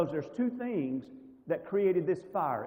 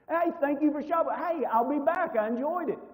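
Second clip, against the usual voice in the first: much higher, bright chatty friendliness; overly friendly cashier greeting; 10 semitones higher, 4 dB louder than usual. Retold or imitated. Shopper imitating a cheery chat with a nice cashier, much higher and upbeat. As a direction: gush at the clerk like an old friend. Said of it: "You have a lovely conversation with them".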